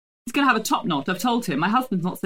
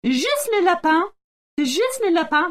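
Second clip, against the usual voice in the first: hammed-up French accent, higher and louder; mock French; 10 semitones higher, 3 dB louder than usual. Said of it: "Which animal again?".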